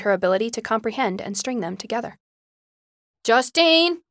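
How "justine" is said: high, loud shrieked name. A narrator's reading. Mother shrieks daughter's name through the door, shriek. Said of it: "Em shrieked".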